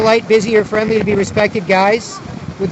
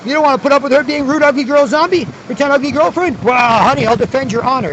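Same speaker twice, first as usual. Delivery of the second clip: higher, goading husband voice; mocking husband voice; 4 semitones higher than usual. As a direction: egg on the guy like a smug husband.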